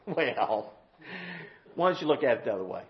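sudden drop to a low, soft voice; low-key rejoinder. Real, not acted. Preacher answering the offended listener, low-key and soft. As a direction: come right down, low and quiet.

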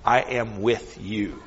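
slow, hushed and close; tender whisper. Pretend. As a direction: whisper it like comfort right beside him. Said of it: "The Lord was wanting Elijah to know".

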